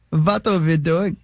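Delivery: put-on slow, mild German accent; a light German accent, drawn out. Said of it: "I like doing my German accent".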